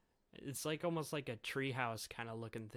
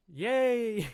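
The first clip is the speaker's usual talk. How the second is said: put-on high, loud childlike yay; excited cheer; 9 semitones higher, 11 dB louder than usual. Bonnie cheering that her daddy will be fixed, high excited squeal. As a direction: squeal it with delight.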